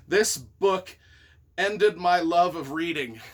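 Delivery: laughing while reading. Real, not acted. Author reads harsh review, laughing.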